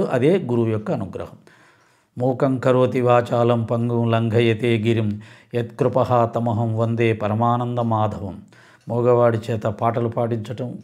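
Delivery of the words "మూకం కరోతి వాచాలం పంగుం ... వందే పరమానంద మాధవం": slow, measured shloka chanting; Sanskrit verse recitation. Acted. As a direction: recite the sacred verse in drawn-out, even phrases. (నెమ్మదిగా, సాగదీస్తూ శ్లోక పఠనం)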